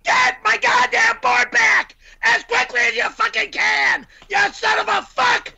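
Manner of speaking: raging yell; furious shout. Acted. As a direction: spit the curses out at him. Furious quarrel, cursing.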